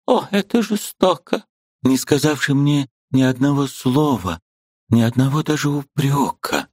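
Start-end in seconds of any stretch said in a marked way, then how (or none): 0.1-5.4 высокий отчаянный вопрос; в отчаянии удержи его; отчаяние. A narrator's reading. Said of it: "с отчаянием проговорила". (высокий голос в отчаянии)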